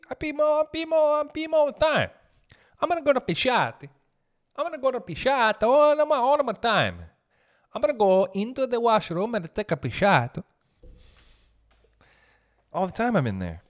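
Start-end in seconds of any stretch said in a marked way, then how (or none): 0.1-2.1 high-pitched exasperated complaint; squeaky comic whine; exasperated rant. Real, not acted. Ranting about peeing constantly. 2.8-10.4 mock fancy talk. Mock fancy word pisciate.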